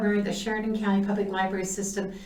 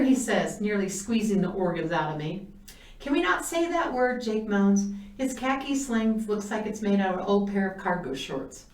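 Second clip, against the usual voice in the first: put-on lively read-aloud storytelling for children; story reading. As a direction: read the book aloud to young listeners.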